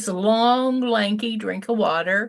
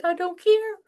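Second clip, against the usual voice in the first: dismissive mother; 11 semitones higher than usual. Retold or imitated. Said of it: "I said".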